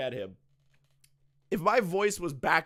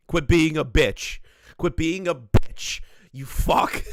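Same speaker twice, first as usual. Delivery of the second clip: blunt scolding; 6 dB louder, slower than usual. Retold or imitated. Retelling lady's blunt advice.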